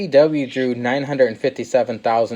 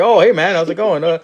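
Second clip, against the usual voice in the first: higher, fake-casual nervous greeting; mock-sheepish wrestler backing off; nervous Sami Zayn; 4 semitones higher, 3 dB louder than usual. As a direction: play it cool then bail out. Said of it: "Sami Zayn's like".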